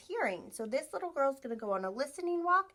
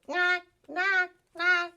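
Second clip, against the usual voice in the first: louder, higher quack; big duck quack; 7 semitones higher, 8 dB louder, much slower than usual. Shown as a demonstration. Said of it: "The big ducks say".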